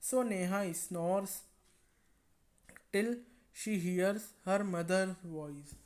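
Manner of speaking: slow, careful read-aloud; story reading. A narrator's reading. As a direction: read it slowly to the class. Reads English story text.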